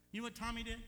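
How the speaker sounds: high, loud tattletale voice; tattling little sister. Retold or imitated. Sister tattling to mom, high and loud. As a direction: sing it out like a sister telling on him.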